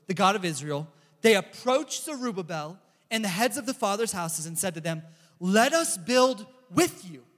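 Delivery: measured Bible reading to the group, unhurried; scripture reading. Acted. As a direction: read the passage out like a preacher. Reads Ezra chapter four aloud.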